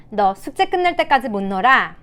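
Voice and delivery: lightly acted parental refusal; scolding parent. Shown as a demonstration. Parent reacting to a child refusing homework, mild scolding. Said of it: "그러면 대부분 어떻게 대응하죠?".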